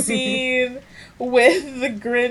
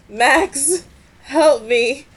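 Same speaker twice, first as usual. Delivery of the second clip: loud, higher cry for help; imitated yelling; 5 semitones higher, 7 dB louder, much slower than usual. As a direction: yell it out like a melodramatic movie quote. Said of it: "He just yelled out".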